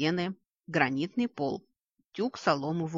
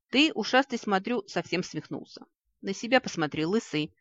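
sharp, higher retort; snapping back; 4 semitones higher than usual. Acted. Vik snaps back at Tvan, trading insults. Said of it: "огрызнулся Вик".

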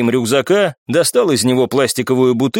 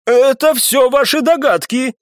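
high, slow, heated protest; flaring up; 11 semitones higher than usual. A narrator's reading. Viscount rejecting the captain's verdict, flaring up. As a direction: snap back in temper. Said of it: "вспылил виконт".

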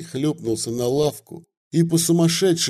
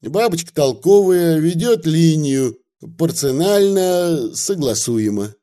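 чуть выше, лукаво-угодливый говорок; мужик заискивает перед приезжим, слегка подыгрывая; Вавила, угодливый мужик; 5 semitones higher, 4 dB louder than usual. Acted. (угодливый деревенский говорок)

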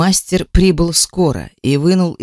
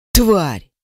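cut-off cry. A narrator's reading. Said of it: "Его крик оборвался".

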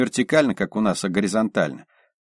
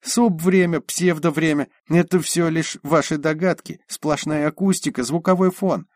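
high indignant voice; 7 semitones higher than usual. Acted. Liza's heated argument continues.

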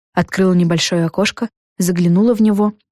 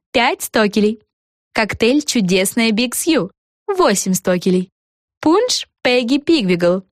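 lilting list, names pitched up; menu ad read; 5 semitones higher than usual. A narrator's reading. Café menu read out with prices, lilting announcer voice. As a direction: announce each drink with a high lift, then the price.

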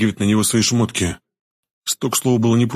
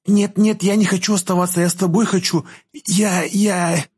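put-on very high, pleading girl's voice; tearful protest; 10 semitones higher than usual. A narrator's reading. Girl refuses to be left behind, tearful high protest. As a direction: protest on the verge of tears, faltering at the end. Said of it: "Из глаз девушки покатились слёзы".

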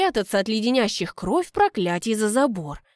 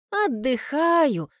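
sighing; 5 semitones higher, much slower than usual. Acted. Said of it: "вздыхаю я".

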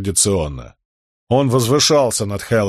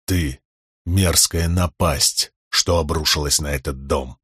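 low contempt, barely held in; near growl; 6 semitones lower than usual. A narrator's reading. Helaran almost growls at his father, low and slow. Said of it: "почти прорычал Хеллоран".

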